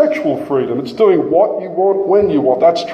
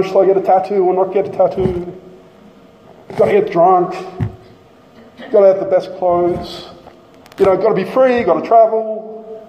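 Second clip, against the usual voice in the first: self-obsessed mockery; 2 semitones higher than usual. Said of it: "self-obsessed".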